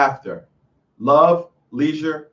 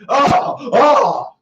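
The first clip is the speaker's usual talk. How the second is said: high, mock-distressed "oh"; hammed-up moan of dismay; mock wail; 7 semitones higher than usual. Woman upset at her man's excuse, mock wailing.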